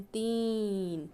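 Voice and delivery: तीन with a long, slow ई; long vowel drawn out. Shown as a demonstration. Teacher to children, showing the long ई in तीन. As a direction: stretch the ई in तीन slowly. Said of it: "जैसे बोलते हैं".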